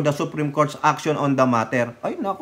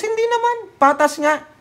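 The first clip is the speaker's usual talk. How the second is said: mocking high denial; sarcastic high. Real, not acted. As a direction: answer in a sharply higher, mocking pitch. Mocking answer to his own question.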